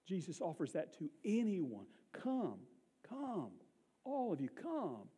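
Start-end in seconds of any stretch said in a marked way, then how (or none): 2.1-5.1 tender, lifted invitation; gentle beckoning call. Retold or imitated. Acts out Jesus calling people.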